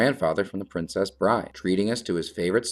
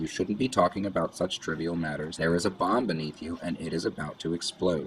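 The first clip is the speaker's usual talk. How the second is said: ordinary talk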